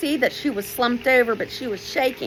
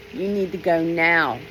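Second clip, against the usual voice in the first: firm; 3 semitones lower than usual. Retold or imitated. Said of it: "Very firm this time".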